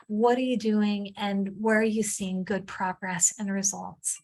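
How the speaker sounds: ordinary talk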